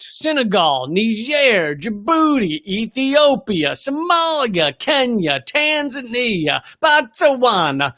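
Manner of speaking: a touch of playful Italian accent. Shown as a demonstration. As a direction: drawl the names out like a mock Italian. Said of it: "Now I'm turning it Italian".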